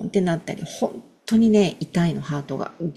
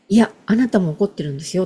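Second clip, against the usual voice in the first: a quicker, lighter coaxing insistence; faster than usual. Retold or imitated. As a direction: gently nudge them to admit it. (軽く促すように早口で)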